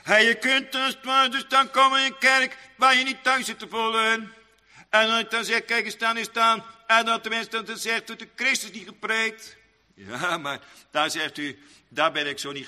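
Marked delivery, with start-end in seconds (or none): 0.0-9.6 raised, chant-like pulpit delivery; preaching. Real, not acted. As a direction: preach it in a high, steady intoning voice.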